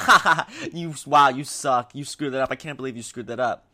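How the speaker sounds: loud fake laugh sinking into a put-down; belittling mockery. Friends bringing a player down after a mistake, belittling mockery. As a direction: laugh in their face, then run them down. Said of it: "Let me bring them down".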